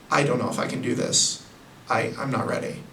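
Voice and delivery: a lightly played unsure young hero; mock doubtful.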